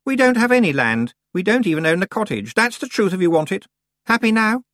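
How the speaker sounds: put-on high, loud defiant girl. A narrator's reading. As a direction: throw the truth at her. Anagrama's defiant confession.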